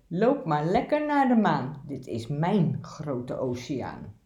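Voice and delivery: bossy, territorial fish, mildly voiced; rude anglerfish. Anglerfish chases the little fish from its ocean, a hint of bossy grumpiness. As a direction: shoo the intruder off your sea, grumpy.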